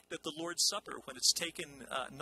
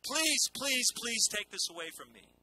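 pleading, higher voice of Jesus crying out; 6 semitones higher than usual. Retold or imitated. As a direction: beg to take the cup away, voice raised. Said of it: "who cried out and said".

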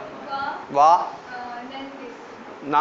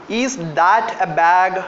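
slow dictation; slower than usual. Shown as a demonstration. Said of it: "Can someone help me to translate?".

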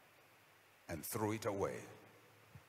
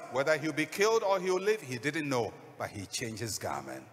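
normal talking voice

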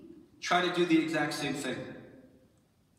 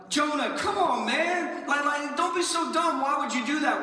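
mock scoffing; 7 semitones higher than usual. Scoffing at Jonah.

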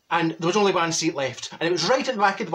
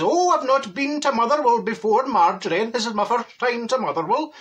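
higher-pitched, naive excitement; gullible Neville; 5 semitones higher than usual. Acted. First-time visitor telling the driver, naively excited. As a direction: play the wide-eyed newcomer, pitched up.

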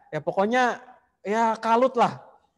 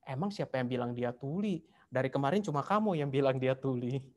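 softer, dry quiet reply; answering softly; 4 semitones lower, 7 dB quieter than usual. Retold or imitated. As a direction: say it quietly, matter-of-fact. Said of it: "Istrinya jawab dengan pelan". (istri menjawab suaminya dengan pelan dan datar)

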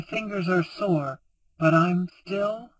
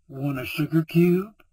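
seductive voice; 3 semitones lower than usual. A narrator's reading. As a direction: tempt her with the sugar.

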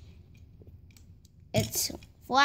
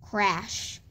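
quieter, lower echo of the crash; soft echo; 3 semitones lower, 6 dB quieter than usual. A narrator's reading. The crash word echoed back, softly. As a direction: let it fade like an echo.

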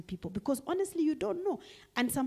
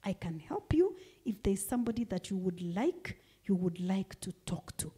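gentle asking. Shown as a demonstration. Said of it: "you can just ask".

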